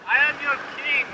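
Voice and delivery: high, loud royal decree; roaring tyrant king. Pretend. Playing king of the birds.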